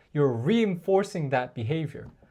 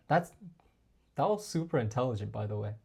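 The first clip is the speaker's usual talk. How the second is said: playful compliment; 4 semitones lower, 6 dB quieter, faster than usual. Shown as a demonstration. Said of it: "in a playful way".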